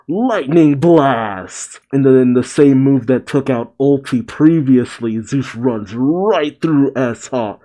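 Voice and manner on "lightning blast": calling an attack. Acted. Calls out Nami's attack name.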